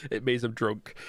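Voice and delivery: laughing through the punchline. Real, not acted. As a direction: giggle it out. Joke about drunk flag waving.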